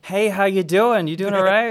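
high, loud, overly friendly greeting; chirpy fake-nice hello. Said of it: "I'm just like".

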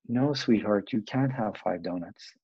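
gently but firmly refuse; kind firm parent. Retold or imitated. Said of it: "The kind parent goes".

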